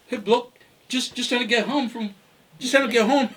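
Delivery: imitating a London accent; mild mock London accent. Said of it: "let me try and get the accent now".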